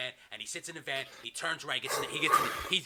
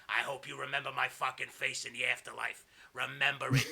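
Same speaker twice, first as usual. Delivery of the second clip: lightly voiced villain's threat; a hint of cold, deliberate menace; Kevin Sullivan menace; 2 semitones lower than usual. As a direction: gloat over a dying victim. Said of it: "And he's like".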